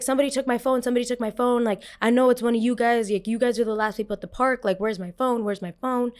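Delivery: retold accusing rant; agitated accusation. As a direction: imitate someone urgently demanding their phone. Teen accusing kids of phone theft.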